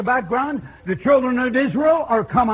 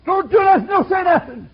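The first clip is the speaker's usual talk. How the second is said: higher, louder, slowed cry; preaching climax; 8 semitones higher, 6 dB louder, slower than usual. Real, not acted. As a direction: peak the sermon on "loved".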